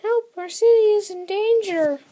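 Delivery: very high, loud mock panic; acted cry for help. Citizen of the comic calling for rescue, acted panic. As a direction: call out in hammed-up alarm.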